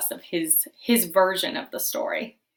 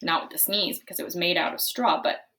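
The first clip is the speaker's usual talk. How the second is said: wolf narrator; 4 semitones higher, 5 dB louder than usual. Acted. Wolf narrates his story.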